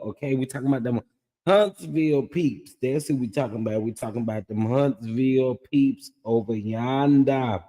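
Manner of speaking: hoarse, scratchy throat. Real, not acted. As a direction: talk through a raw, scratchy throat. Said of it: "excuse my scratchy voice".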